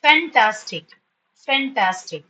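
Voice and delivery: "Fantastic" in three beats, fan-tas-tic; teacher sounding out "Fantastic"; syllabified. Shown as a demonstration. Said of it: "how you have to learn syllabification".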